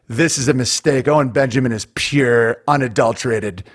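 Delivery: lightly voiced TV host, dismissive and grave; Tucker. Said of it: "he literally just immediately was like".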